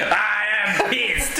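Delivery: slow, grand knight voice; lightly voiced noble knight. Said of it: "and he was like".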